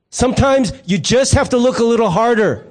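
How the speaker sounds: mock exasperated scolding, punched out; eye-rolling wife. Wife chides husband after finding the jelly, mock exasperated. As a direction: imitate a wife's weary reproach with an eye-roll. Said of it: "then she rolls her eyes".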